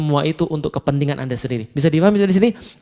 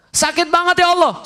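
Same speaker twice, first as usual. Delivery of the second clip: mengeluh; 11 semitones higher than usual. Acted. Ibu hamil kesakitan.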